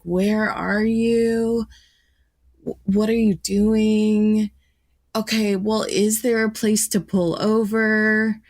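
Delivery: a touch of hesitant, careful dad voice. Retold or imitated. Dad cautiously asking daughter to pull over, lightly hesitant. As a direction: imitate dad gently probing, unsure how to start. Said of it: "he was very hesitant".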